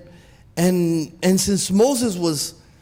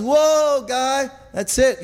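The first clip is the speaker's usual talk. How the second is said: God calling a halt; 4 semitones higher, slower than usual. Retold or imitated. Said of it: "God says".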